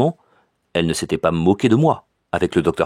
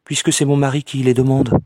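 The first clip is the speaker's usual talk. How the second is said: higher, lightly voiced insistence; stubborn cousin; 7 semitones higher than usual. A narrator's reading. Cousin insists to her cousin, higher. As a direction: insist simply. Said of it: "répondit".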